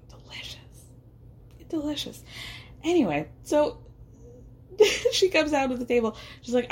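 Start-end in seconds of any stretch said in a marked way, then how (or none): 0.1-0.6 breathy whisper of delight; barely voiced mmm-delicious; whispered savoring. Savoring tasting coconut rice. 1.7-2.2 quiet, relishing delicious; softly voiced delicious; soft savoring. Savoring tasting coconut rice.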